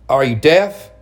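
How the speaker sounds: cold rebuke. Acted. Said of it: "in a cold voice I'd never heard".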